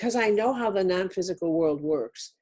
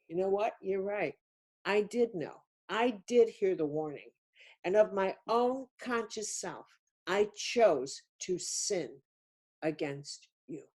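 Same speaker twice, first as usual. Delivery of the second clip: confession; 5 dB quieter than usual. Pretend. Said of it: "where I need to say to somebody".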